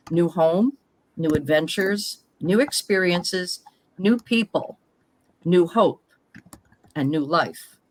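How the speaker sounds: measured, scripted first-person storytelling; reading personal story aloud. Acted. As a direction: read your life story out in phrases, pausing between them. Reads prepared personal story aloud.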